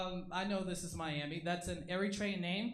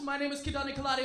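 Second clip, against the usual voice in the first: higher-pitched mock African accent; put-on African accent; 5 semitones higher, 3 dB louder, faster than usual. Comic as audiences expect them, put-on African accent. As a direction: introduce yourself in a hammed-up African accent. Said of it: "I don't sound like that. I sound like this".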